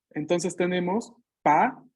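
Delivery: "pa" con P oclusiva; sílaba pa. Shown as a demonstration. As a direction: cierra los labios y suelta "pa". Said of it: "Pasa de H a ser la P". (pronuncia "pa" con la P cerrada)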